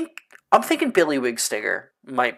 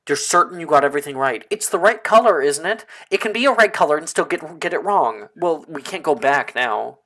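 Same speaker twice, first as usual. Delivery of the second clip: anxious Janice; 4 semitones higher, 5 dB louder than usual. Acted. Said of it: "Janice says".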